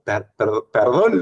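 mucho más agudo, lento y tartamudeando; disculpa balbuceada. Retold or imitated. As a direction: disculpa torpe de borracho. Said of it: "le digo".

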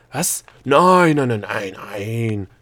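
loud, alarmed string of denials; hastily calling out. A narrator's reading. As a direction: cry out in hasty backpedalling. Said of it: "rief der Gnom flink".

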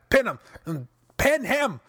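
pleading "pin him" to the screen; egging the wrestler on; urging. Retold or imitated. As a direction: fan begging for the pin.

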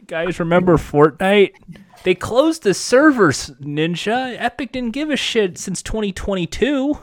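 a hint of a whining streamer; mock pleading streamer. Aging Ninja complains to fans about Fortnite, mock indignant. Voicing a washed-up middle-aged streamer.

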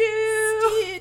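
high, loud drawn-out holler; mock calling out. Co-host echoes the friend's phone call, mock calling out. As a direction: call out Stu's name, high and big.

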